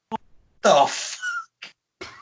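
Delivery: high squeaking what the fuck; mock shocked squeal at the screen. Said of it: "I'm just like this".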